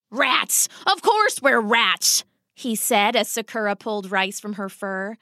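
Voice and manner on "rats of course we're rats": exasperated rat papa exclaiming; dramatic exasperation. Acted. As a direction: throw the word back, mildly hammed-up. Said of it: "familiar with her father's dramatics".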